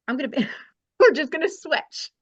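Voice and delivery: put-on light Scottish accent; a playful go at a Scottish accent. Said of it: "That was so good".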